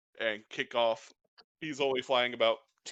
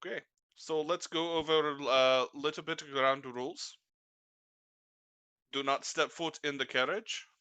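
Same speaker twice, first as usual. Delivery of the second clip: employer laying down rules. Acted. GM voicing employer giving rules.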